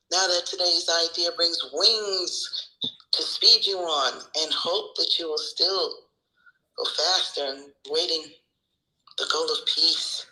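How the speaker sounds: measured devotional read-aloud, pausing between phrases; inspirational reading. Real, not acted. Reading today's lesson to the family, measured recitation.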